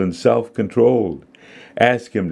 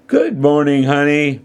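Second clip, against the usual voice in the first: cheery greeting; 7 semitones higher than usual. A narrator's reading. Mother greeting her daughter for a hug, cheery. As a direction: greet your daughter sweetly at a higher pitch.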